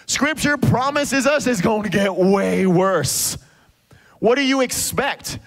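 slow whisper, leaning in to the crowd; slow, breathy warning whisper. Real, not acted. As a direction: hush it like a secret warning. Preacher drops to a warning.

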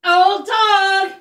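loud, high triumphant call. Real, not acted. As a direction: proclaim it in triumph. Triumphant after the headstand.

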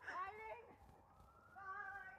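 high fading goodbyes; playful fleeing. Pretend. Friend fleeing, high playful goodbyes. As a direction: call back while running off. Running away.

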